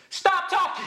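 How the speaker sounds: sudden high, loud shout; yelled outburst. Retold or imitated. Retelling how a polite request to talkers came out, yelled. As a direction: blurt it out as a yell. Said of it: "But that came out as".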